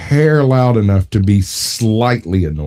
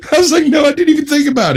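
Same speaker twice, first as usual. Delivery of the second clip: crying laughing; much faster than usual. Real, not acted. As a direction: laugh helplessly while telling it. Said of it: "started crying because I missed it".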